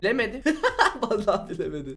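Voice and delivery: laughing through the words; laughing gloat. Real, not acted. Gamer laughs at Akinator's miss to viewers. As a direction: giggle that it got it wrong.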